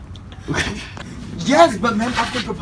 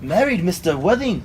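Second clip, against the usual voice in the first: put-on Scottish accent; 6 dB quieter than usual. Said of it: "you sound like a Scottish dude".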